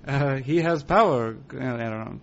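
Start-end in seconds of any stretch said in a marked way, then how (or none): 0.4-1.3 Yoda with a hint of Italian accent. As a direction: try a quick Italian Yoda. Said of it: "How would an Italian Yoda sound?".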